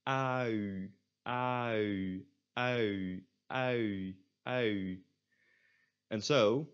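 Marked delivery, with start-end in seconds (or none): 0.0-5.0 "au" from open ah into rounded u; cheat UI drill. Shown as a demonstration. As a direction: repeat "au" evenly for learners to copy. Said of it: "try to repeat it for me".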